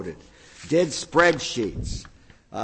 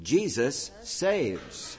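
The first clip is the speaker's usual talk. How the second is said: quiet slow deadpan delivery; deadpan punchline; 6 dB quieter, much slower than usual. Acted. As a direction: drop the punchline dry and slow. God's punchline.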